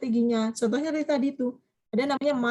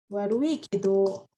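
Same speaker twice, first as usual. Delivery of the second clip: slow and lower, spelled out; slow model phrase; 3 semitones lower, much slower than usual. Shown as a demonstration. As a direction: draw out warui kedo for the class. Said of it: "bisa ditambah lagi warui kedo". (ucapan pelan sebagai contoh)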